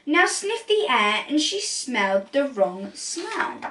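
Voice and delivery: lively storybook read-aloud; animated rhyming picture-book narration; reading to children. A narrator's reading. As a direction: read it like bedtime story time.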